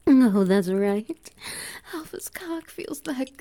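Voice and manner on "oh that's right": a much louder, slow drawn-out "Oh, that's right". Acted. Alpha loudly relishing the moment with his omega. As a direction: savour each word, loud and slow. Satisfied exclamation in roleplay.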